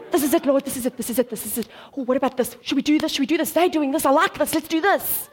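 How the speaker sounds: giddy rush of mock enthusiasm; playful, eager babbling; excited. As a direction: act out someone pulled from one find to the next. Acts herself distracted like the dog.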